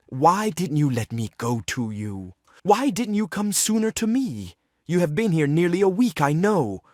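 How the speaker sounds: reproachful pleading. Acted. Treplev asks Nina why she stayed away, reproachful and pleading. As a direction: plead as a hurt lover.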